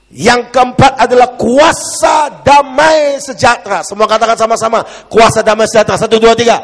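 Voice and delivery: high, loud rallying shout; forceful preaching. Real, not acted. Preacher leading congregation in the fourth point, forceful shout. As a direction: announce it at full force and count them in.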